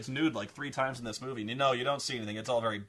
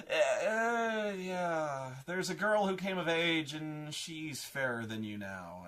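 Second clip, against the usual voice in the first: hesitant mirror voice; 3 semitones higher, slower than usual. Retold or imitated. Magic mirror answers queen hesitantly.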